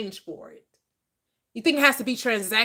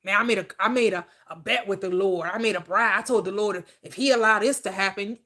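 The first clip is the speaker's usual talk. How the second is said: bargaining believer; 2 semitones lower than usual. Retold or imitated. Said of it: "you hear people talk like that".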